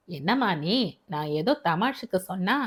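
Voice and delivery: a hint of a gentle older man asking a favour; fatherly voice. Father asks his new wife to care for daughter, gently earnest.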